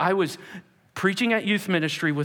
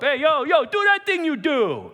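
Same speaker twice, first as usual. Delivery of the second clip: Rocky; 8 semitones higher, 5 dB louder than usual. Retold or imitated. Man walking up to egg on a friend, hollering. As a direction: holler it like an eager street guy. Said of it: "I remember the Rocky. He'd walk up".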